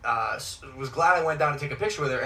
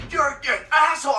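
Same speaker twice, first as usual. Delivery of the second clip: raised, higher sneer; mock insult; 10 semitones higher than usual. Fan insulting Logan, raised sneer. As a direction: spit the insult. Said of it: "And he goes".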